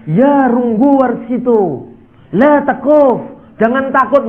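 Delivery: slow, drawn-out Arabic-style call; mock Arabic prophet. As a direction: intone it like a lofty Arabic voice. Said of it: "Dia juga mengatakan". (suara Arab yang dibuat-buat, pelan)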